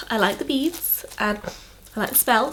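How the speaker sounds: sniffly, stuffed-up nose; with a blocked nose. Real, not acted. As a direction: talk through a sniffly cold nose. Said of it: "you just heard my bloody nose".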